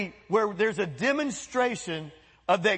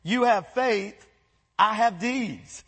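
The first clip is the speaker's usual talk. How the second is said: slow, measured reading of the verse; slow scripture reading; slower than usual. Shown as a demonstration. Pastor reading James to the church, slow and measured. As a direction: lay each word out slowly. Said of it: "It says".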